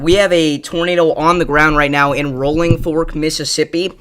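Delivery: breathless after sprinting indoors; out of breath, pushing words out. Real, not acted. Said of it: "I gotta kinda catch my breath here 'cause I sprinted in here".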